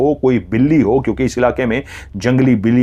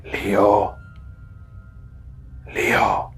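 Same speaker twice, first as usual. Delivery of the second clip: low, hushed man calling a name; deep-voiced stranger calling out quietly; heavy male voice; 3 semitones lower, 7 dB quieter, much slower than usual. A narrator's reading. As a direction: call the name softly in a heavy, eerie man's voice. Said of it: "एक भारी भरकम आवाज ने".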